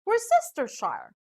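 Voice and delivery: Worcestershire as wor-SESTER-shire; Worcestershire misread as wer-sess-ter-shy-er; mispronounced word. Shown as a demonstration. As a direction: say Worcestershire with every syllable, S not CH. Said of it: "Some may read this as".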